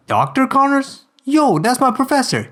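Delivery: high, slowed, excited; light up at the name; eager Parker. Acted. Parker excitedly telling the boss he knows Connors.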